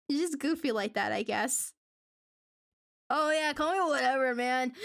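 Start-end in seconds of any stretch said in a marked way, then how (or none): 3.1-4.7 laid-back chill guy. Acted. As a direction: play him loose and unbothered. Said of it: "It's just the laid-back, chill energy".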